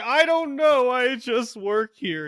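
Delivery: crying, very high voice, slow sobbing. Voicing a dock worker questioned about surveillance cameras: crying. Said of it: "He starts crying".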